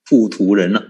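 糊涂人 said the Hokkien way, not in Mandarin; Hokkien pronunciation. Shown as a demonstration. 师父对听众示范福建话的糊涂人, Hokkien pronunciation. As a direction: give 糊涂人 its Hokkien sounds. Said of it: "福建话叫糊涂人啊".

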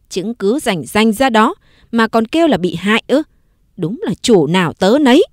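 put-on sneering retort to the servant girl; spiteful taunt. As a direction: needle her with scorn. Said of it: "dở giọng đay nghiến". (giọng đay nghiến mỉa mai)

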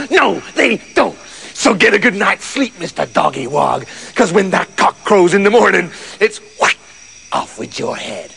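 cruel farmer cutting the dog off; hint of a wicked master; lightly voiced horrible farmer.

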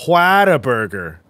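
Whataburger drawn out with an exaggerated "hwah" start; mock the dumb way of saying Whataburger; mocked pronunciation. Imitating friend who had the burger, overdone Whataburger. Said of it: "Why do people say it all fucking dumb".

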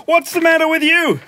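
high-pitched imitation of Mum; scolding mum. Mum confronting Clem in his room, scolding. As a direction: mimic an accusing mother. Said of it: "She goes".

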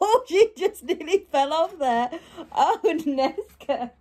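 sudden high exclaiming; alarmed. Real, not acted. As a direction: call out at the dog. Dog nearly falls.

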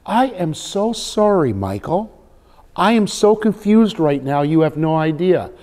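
slow, high-pitched mock apology; put-on confusion, deliberately emphatic; feigned bewildered apology. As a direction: draw out the sorry, playing baffled. Acts out script, feigning bewildered apology.

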